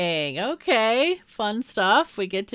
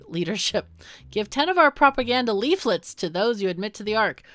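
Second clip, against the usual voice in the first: smooth official voice; 3 semitones higher, 4 dB louder than usual. Acted. Reads minister dialogue.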